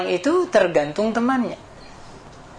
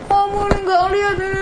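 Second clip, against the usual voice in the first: high, fast scolding of the driver; grumbling rant; faster than usual. Retold or imitated. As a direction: snap at him as if your foot was run over. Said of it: "ngomel-ngomel".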